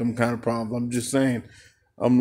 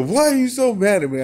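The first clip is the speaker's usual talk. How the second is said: imitating her whine; 11 semitones higher, 5 dB louder than usual. Voicing her upset question.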